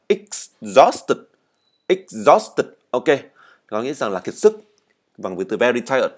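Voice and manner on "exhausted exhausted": exhausted repeated clearly, stress on the second syllable; read-along model. Shown as a demonstration. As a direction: lead the class through exhausted. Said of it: "Các bạn đọc theo mình nào".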